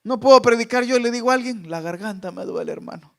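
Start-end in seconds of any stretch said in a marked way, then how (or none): 1.7-3.1 mock weak excuse. Mimicking a hoarse excuse.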